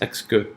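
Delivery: exque with a stressed EX and a reduced "kuh"; unstressed schwa. Shown as a demonstration. Teacher showing the unstressed second syllable, exque ending in schwa. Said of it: "second syllable is not stressed".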